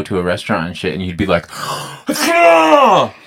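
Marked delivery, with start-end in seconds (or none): 1.5-2.0 sudden shocked gasp; sharp gasp. Retold or imitated. Retold restaurant reaction. 2.1-3.1 high shocked "No!"; shocked high cry. Retold or imitated. Retold restaurant shock.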